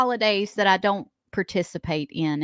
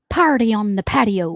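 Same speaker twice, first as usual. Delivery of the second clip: a bad attempt at an Irish accent, a bit louder; clumsy Irish accent read; 6 dB louder than usual. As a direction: ham up an Irish brogue on the line. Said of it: "You gotta say it in an Irish accent".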